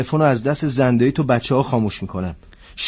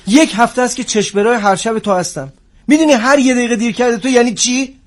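scolding, building to angry; 4 semitones higher than usual. Acted. Captain scolding his late agent, rising to an angry outburst.

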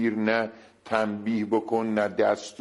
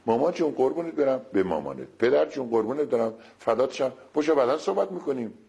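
lightly raised, sweet-talking calm-down; coaxing endearment; 4 semitones higher than usual. Shown as a demonstration. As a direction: soothe the angry partner with pet names, higher. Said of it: "هر چی میگه بگو نه".

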